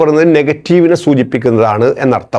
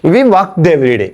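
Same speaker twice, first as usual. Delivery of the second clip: slow dictation; much slower than usual. Shown as a demonstration. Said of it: "അപ്പോ ഇവിടെ നോക്കുക".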